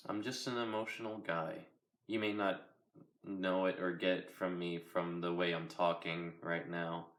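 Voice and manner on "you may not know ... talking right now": flat, even monotone delivery. Real, not acted. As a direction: speak in a dull monotone. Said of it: "Pretty monotone, right?".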